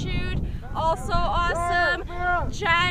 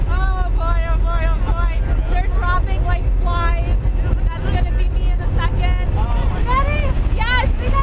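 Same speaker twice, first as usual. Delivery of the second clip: nervous excitement; 5 dB louder than usual. Real, not acted. About to jump from plane.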